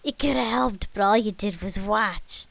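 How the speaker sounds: sobbing accusation. A narrator's reading. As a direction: wail it at them as an accusation. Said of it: "as she sobbed".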